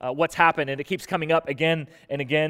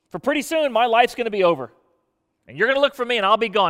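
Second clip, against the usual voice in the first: higher, desperate plea; pleading lament; 3 semitones higher than usual. Retold or imitated. Preacher voicing Job begging God, higher desperate plea. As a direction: beg to be let alone, pitch lifted. Job's plea voiced in sermon.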